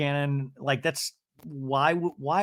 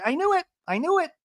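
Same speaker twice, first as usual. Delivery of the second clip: high mock voice of Alexis; imitating Alexis; faster than usual. Alexis seeing the thumbs down, a high mock squeak. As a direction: squeak it up high, half-mocking. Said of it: "And Alexis is like".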